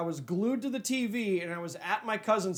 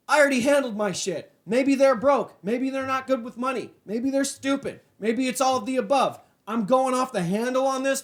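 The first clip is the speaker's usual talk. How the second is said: higher, heated venting; mad rant; 3 semitones higher than usual. Real, not acted. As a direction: let the anger out at broke friends. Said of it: "I'm just so mad right now".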